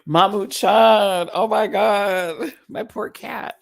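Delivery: high, loud, slow call to the cat; alarmed call. Real, not acted.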